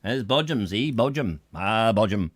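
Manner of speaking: lightly rustic Sussex vowels on Bodgem; rural Sussex accent. Shown as a demonstration. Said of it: "every time I do rural accent".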